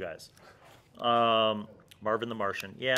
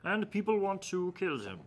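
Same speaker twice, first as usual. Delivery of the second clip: higher, choked silly NPC voice; absurd clogged throat voice; 8 semitones higher than usual. Shown as a demonstration. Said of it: "speaking like this".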